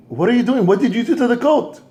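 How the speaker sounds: he can't believe what he sees; shocked father. Acted. Father seeing the coat cut in half, shocked.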